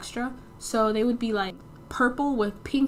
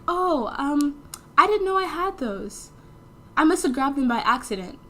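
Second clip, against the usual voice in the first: caught friend's voice; 5 semitones higher than usual. Retold or imitated. B caught with the shirts.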